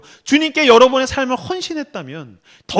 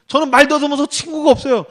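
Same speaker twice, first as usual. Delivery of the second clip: higher-pitched, fluent mocking retelling; mocking self-pity quote; 4 semitones higher than usual. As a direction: throw the pitiful excuse back without the stutter. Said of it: "그래서 연민이나 구하고 있고". (연민 구하는 말을 비꼬듯 흉내)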